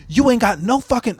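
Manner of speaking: high-pitched mock Black American accent; imitated Black accent. Polish neighbor confronting the band, mock Black accent. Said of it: "she just starts talking in black accent".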